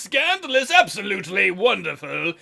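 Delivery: theatrical dragon voice with swooping pitch; chatty, delighted dragon. Acted. Dragon offering to wed the eloping pair, delighted. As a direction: gush grandly, swooping up and down.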